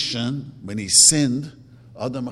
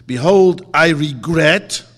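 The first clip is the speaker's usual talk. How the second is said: proclaimed confession; 3 semitones higher, 13 dB louder, slower than usual. Shown as a demonstration. A teacher showing his class the confession, declaimed loud and slow. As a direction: declare it loudly like a solemn vow. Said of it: "You have to say".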